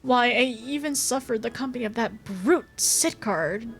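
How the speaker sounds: a touch of theatrical noble grievance; lightly voiced haughty young lord. Young lord grumbling about toil beside a brute, lightly haughty. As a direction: lightly play a put-upon aristocrat. Reads the lord's complaint.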